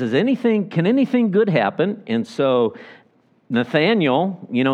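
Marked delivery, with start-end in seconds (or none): 0.0-2.0 incredulous question. Retold or imitated. Nathanael's skeptical question retold.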